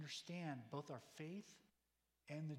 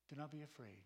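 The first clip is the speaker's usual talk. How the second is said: quiet repeat. Shown as a demonstration. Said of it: "Good words".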